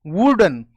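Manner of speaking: वुडन with lips pressed for w; correct w. Shown as a demonstration. Teacher repeating correct वुडन to students. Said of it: "इसमें होठ टकराएंगे आपस में".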